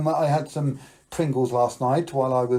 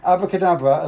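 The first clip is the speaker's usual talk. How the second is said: loud magic word; 4 semitones higher, 6 dB louder than usual. Shown as a demonstration. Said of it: "as loud as you can".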